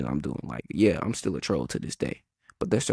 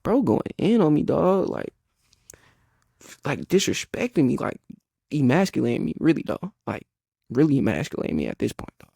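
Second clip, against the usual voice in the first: near tears; 7 semitones higher, 3 dB louder than usual. Retold or imitated. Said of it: "I'm almost finna cry".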